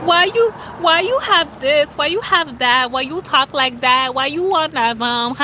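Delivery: mocking whiny hater. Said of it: "Haters will be like".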